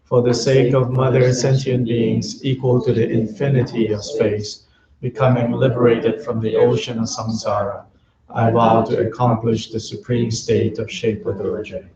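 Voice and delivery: even, measured chant-like prayer reading; prayer recitation. Real, not acted. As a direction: recite the prayer steadily, line by line, on a level tone. Recites refuge and bodhicitta prayers.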